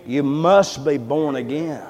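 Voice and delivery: slow, drawn-out echo in the head; solemn, stretched-out repeated warning; haunting refrain. Retold or imitated. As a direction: intone it slowly, like a relentless refrain. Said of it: "all I could hear was".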